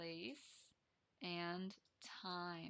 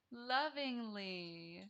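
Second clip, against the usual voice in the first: drawn-out, tender lovingly; lovingly said slow and tender; 4 dB louder, much slower than usual. Shown as a demonstration. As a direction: stretch lovingly like a hug. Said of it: "sorry you cannot see this".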